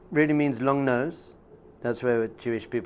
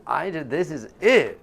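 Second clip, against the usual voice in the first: elated; 4 semitones higher, 5 dB louder, slower than usual. Retold or imitated. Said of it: "I'm like".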